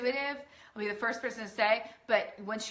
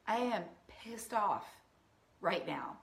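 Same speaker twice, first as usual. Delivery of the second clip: owning the anger; 4 dB quieter than usual. Shown as a demonstration. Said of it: "That's what I mean".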